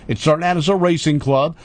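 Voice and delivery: ordinary talk, nothing marked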